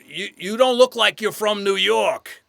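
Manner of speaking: slow, high, loud acted quote; emphatic retold verdict. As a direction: spell it out slowly and forcefully. Acting out casting director's blunt verdict.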